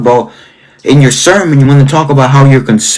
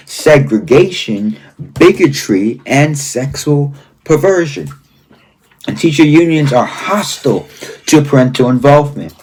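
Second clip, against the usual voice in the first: emphatic read-aloud. Real, not acted. Host reading a book's warnings to viewers, emphatic and deliberate. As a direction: read each charge out as a grave list. Reads the book aloud in measured phrases.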